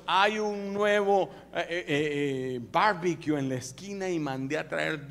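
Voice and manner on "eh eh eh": usual speaking voice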